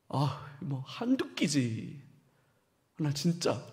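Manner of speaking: lightly voiced whiny complaining; mock the people's grumbling; grumbling Israelites. Preacher imitates complaining Israelites, a mild whiny grumble. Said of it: "뭘 가지고 원망하고 불평하냐?".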